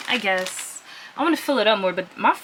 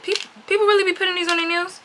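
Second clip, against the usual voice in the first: high, stretched amazement; shocked disbelief; 10 semitones higher than usual. Real, not acted. Reacting to huge fake nails, high disbelief. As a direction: drag it out, stunned.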